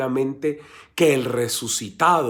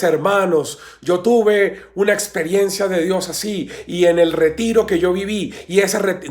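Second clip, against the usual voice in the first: higher, lightly imitated testimony voice; testimony giver; 5 semitones higher than usual. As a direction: play someone sharing at the microphone. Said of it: "y diciéndoles".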